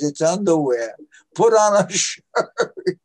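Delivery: high, loud mock nagging, slowing to the end; scolding mother. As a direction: order your son about like a fed-up mom. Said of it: "She says".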